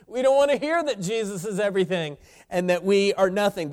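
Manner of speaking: emphatic preaching. Real, not acted. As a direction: preach it out loud and high. Same protest repeated at preaching force.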